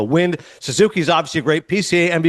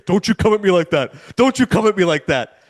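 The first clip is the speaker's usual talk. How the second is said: put-on old man grumbling. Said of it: "I hear him say".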